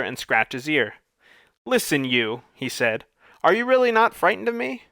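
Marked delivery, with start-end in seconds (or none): 1.6-4.8 high, incredulous beast; can't believe he isn't scared; astonished monster. A narrator's reading.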